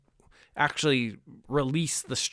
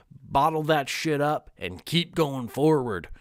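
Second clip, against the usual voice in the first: lightly Southern, folksy advice voice; Southern accent. Acted. Mimicking what guys are told growing up, in a Southern accent. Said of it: "I don't know why it went Southern".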